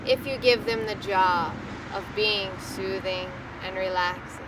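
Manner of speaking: unhurried, soothing hypnotic pacing; guided meditation. Acted. Leads a guided relaxation.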